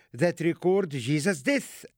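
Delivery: normal talking voice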